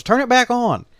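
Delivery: high, loud holler across the lot. Retold or imitated. Dad hollers at the attendant to restart the pump, loudly. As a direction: shout it over to the attendant. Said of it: "he hollers at the guy".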